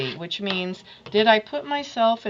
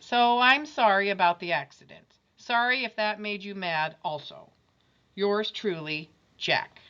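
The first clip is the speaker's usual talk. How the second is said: put-on boy reading his note; 3 dB louder than usual. Jack's better apology.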